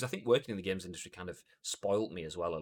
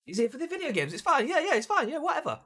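much higher, airy, laughing shrug-off; dismissive staffer voice; 6 dB louder than usual. Retold or imitated. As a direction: wave him through without caring. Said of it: "it's like".

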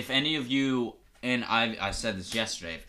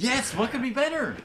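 sarcastic whisper; 13 semitones higher than usual. Acted. Sarcastic reply.

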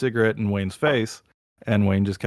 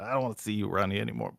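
put-on Boston accent; 6 dB quieter, much faster than usual. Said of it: "something Boston like that".

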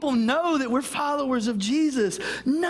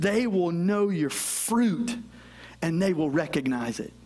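solemn slow quote; 5 semitones lower than usual. Acted. Quoting Jesus solemnly.

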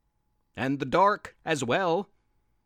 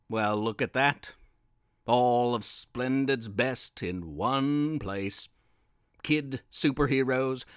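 evil villain voice; 4 semitones lower than usual. Acted. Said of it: "a loud, ominous, evil voice, the intimidating voice of Mister X".

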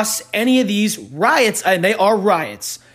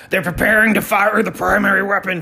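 quoting a movie line. Retold or imitated. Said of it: "he's the guy".

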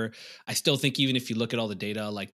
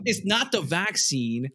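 mock; 3 semitones higher, slower than usual. Mock lecturing after the joke.

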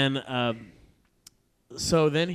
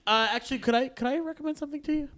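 much higher, fast, eager film-geek voice; clerk voice; 11 semitones higher, faster than usual. Retold or imitated. Store clerk butting in with an eager movie tip. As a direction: chirp it in quickly, keen to help.

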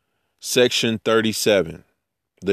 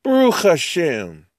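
much higher, gushing amazement; amazed Magi; 12 semitones higher than usual. Pretend. The Magi seeing the supernatural star, gushing and much higher. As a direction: squeal with wonder at the star. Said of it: "They're like".

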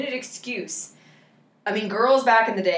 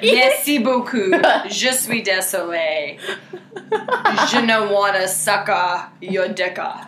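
laughing mock French; 3 dB louder than usual. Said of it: "You have to say".

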